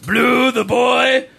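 slow, drawn-out Watto voice; lightly voiced Watto; Watto impression. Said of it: "literally Watto's lines".

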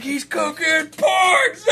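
slow, high delighted shout; gleeful shout at a friend in the cinema; excited yelp. Retold or imitated. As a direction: yell it out in disbelieving glee. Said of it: "I was like".

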